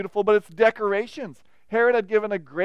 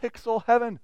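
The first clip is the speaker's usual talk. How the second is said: gushing awe; 3 semitones higher, 8 dB louder than usual. Retold or imitated. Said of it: "you walk in and you go".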